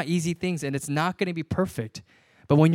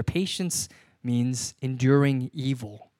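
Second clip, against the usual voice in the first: slow emphasis; 3 semitones lower, slower than usual. Shown as a demonstration. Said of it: "it actually goes a little bit further".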